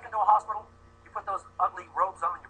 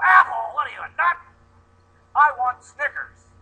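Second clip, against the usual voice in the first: put-on outraged kid; 5 semitones higher, 8 dB louder than usual. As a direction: play a spoiled child offended by an apple. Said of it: "they go".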